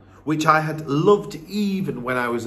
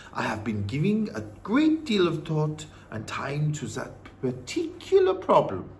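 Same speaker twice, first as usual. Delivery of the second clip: put-on measured old-woman voice; knowing, composed grandmother; wise Norwegian grandmother. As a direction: answer deliberately as the grandmother. Grandmother answers boy.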